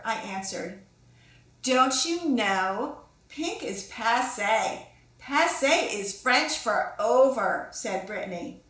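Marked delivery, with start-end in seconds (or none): 1.6-7.7 slow, loud, drawn-out superior tone; snooty know-it-all. Acted. Brittany lecturing Pinkalicious that pink is out, slow and snooty. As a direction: stretch each word like you're above it all.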